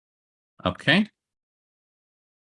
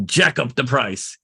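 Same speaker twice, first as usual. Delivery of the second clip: knowing sly tone. Shown as a demonstration. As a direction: say it like the seller's secret plan. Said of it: "You gotta get this tone in your head".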